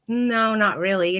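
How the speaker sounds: slow, drawn-out coy no; coy, flirtatious. Retold or imitated. Client answers vet about dog parks, mildly coy. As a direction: imitate a lightly flirty answer. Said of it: "how coy and flirtatious I was being".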